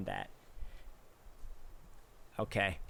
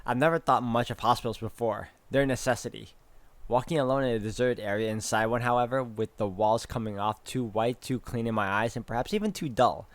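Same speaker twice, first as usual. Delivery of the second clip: measured read-aloud of story text; even, composed first-person narration. A narrator's reading. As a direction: narrate it like an audiobook. Reads game's story text aloud.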